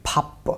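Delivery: फाप closed on a p; natural final-consonant pronunciation. Shown as a demonstration. Teacher checking the syllable on its own with learners, final-consonant pronunciation. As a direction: slowly stop फाप on the final p. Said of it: "जिसका natural pronunciation प होना चाहिए".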